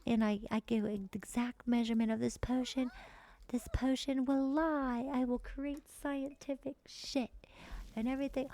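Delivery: lightly voiced budding scientist; acted character quote. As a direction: play at grand scientific plans, stretching words. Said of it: "He's like".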